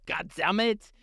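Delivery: high, hammed-up wail; lamenting werewolf. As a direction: wail it in comic despair. Confused French werewolves lament their schooling.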